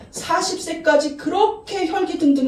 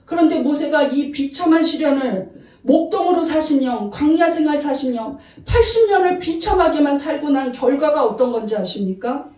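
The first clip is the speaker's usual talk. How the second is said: normal talking voice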